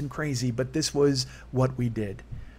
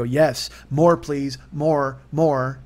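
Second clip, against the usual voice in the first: greedy begging; 7 dB louder, much slower than usual. Retold or imitated. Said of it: "all the hugs I would go".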